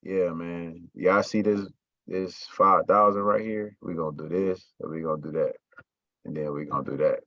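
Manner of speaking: lifeless, low-energy delivery; unenthusiastic. Shown as a demonstration. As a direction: pitch it like you barely care. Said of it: "I'm just like".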